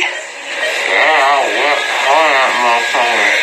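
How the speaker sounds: low, slurred mumble; sleepy slurring after surgery; groggy from anesthesia. Real, not acted. Post-surgery wisdom teeth, anesthesia.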